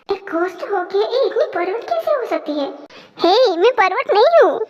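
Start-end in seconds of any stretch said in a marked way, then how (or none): 0.1-2.7 softer muttered thought to himself; inner thought, soft. Acted. Boy thinking privately about the shameless ghost, soft. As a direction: think it aloud under your breath.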